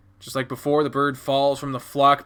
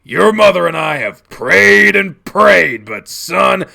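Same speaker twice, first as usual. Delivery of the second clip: loud, slow, raised lament; impassioned reproach; 5 semitones higher, 11 dB louder, slower than usual. Acted. Dad reproaching child after all the praying, impassioned anger. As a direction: hammer it home to your child.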